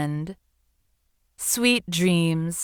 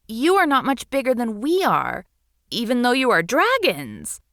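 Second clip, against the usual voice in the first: small high voice, earnest; a little seahorse pleading her case; 6 semitones higher than usual. Acted. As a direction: seahorse telling the witch about the collectors. Seahorse asks dragon.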